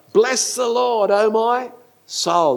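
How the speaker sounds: high, drawn-out praise line; lofty worship-song delivery; songwriters' psalm. Acted. Quotes a line songwriters love.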